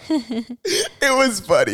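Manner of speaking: slow, laughing insistence; laughing slowly. Real, not acted. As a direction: drag it out through a laugh. Insists the show was funny.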